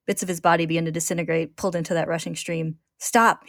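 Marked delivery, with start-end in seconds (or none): 3.0-3.5 sharp, higher, louder single word; urgent. Acted. Ed being pulled apart, urgently crying stop. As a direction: cut it off in alarm. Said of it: "he thinks urgently".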